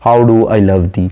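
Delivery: slow rhetorical question; How do I love thee? said slowly, as verse; poem recitation. Shown as a demonstration. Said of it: "पोएटस कहती है".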